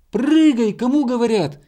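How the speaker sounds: high, insistent yell. A narrator's reading. Bear cub losing patience with hare, high commanding shout. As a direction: order them loudly to jump. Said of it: "И ещё громче крикнул медвежонок".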